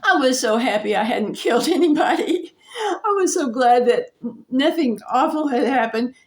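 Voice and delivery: laughing through tears of relief; real tears as she relives the near miss; relieved crying. Real, not acted. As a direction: voice caught between a laugh and a sob. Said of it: "I sat there crying".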